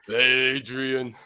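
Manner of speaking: slow, lightly voiced Rocky call; a hint of a Stallone drawl, slow. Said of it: "That's pretty Stallone".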